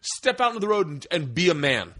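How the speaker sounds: worked-up challenge, easing at the end; retold challenge. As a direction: act out calling someone out to fight. Challenges driver to fight, retold.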